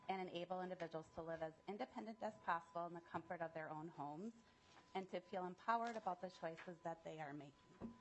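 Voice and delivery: short of breath, rushing the words; running out of air mid-sentence; catching breath midword. Real, not acted. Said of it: "lost my breath here".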